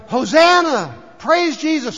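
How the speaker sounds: high, loud cheer of praise; crowd's shout. Retold or imitated. Preacher voicing the Palm Sunday crowd, shouted high. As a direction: call it out like an enthusiastic crowd. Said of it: "they shouted".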